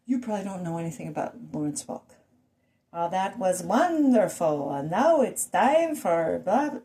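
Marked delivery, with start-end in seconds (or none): 2.9-6.8 slow, lilting mock Swedish accent; heavy Swedish accent. Dad's mockery of a TV bandleader, Swedish accent. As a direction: stretch it out in an imitated Swedish accent. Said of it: "had this very heavy Swedish accent".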